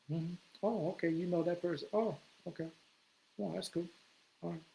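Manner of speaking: bored polite okays; unimpressed. Retold or imitated. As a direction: humor him flatly. Unimpressed by name dropper.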